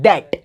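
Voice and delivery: "That" with a dental da sound; correct pronunciation. Shown as a demonstration. Teacher drills "That" with the students. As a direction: model "That" clearly. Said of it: "क्या बोलेंगे?".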